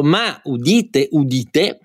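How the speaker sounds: slow, grand announcement; town crier. Acted. Announcing the 200th episode.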